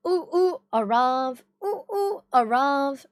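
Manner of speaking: a hint of Arav's voice; Arav impression. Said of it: "That is actually how he sounds like".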